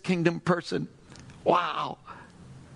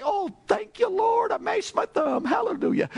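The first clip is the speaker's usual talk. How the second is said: mock grateful praise. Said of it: "You'd have to say".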